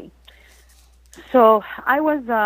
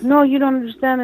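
higher-pitched retold objection, not yelled; quick, higher quoted protest; 4 semitones higher than usual. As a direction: imitate her insisting, voice raised in pitch only. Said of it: "So back and forth".

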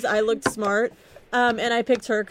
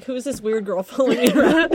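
a light mock-puzzled line broken by a laugh; laughing retold thought. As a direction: laugh through the quote of your own old confusion. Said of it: "and I was like".

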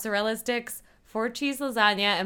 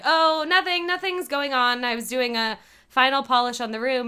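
higher, louder hasty denial, imitated; backpedaling; 4 semitones higher, 4 dB louder than usual. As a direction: play someone covering up. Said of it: "starts backing out of it".

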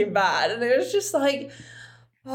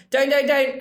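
louder, quick repeated stop; mild mock panic; urgent warning; 4 semitones higher, 4 dB louder than usual. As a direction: hurry to stop her. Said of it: "he was like".

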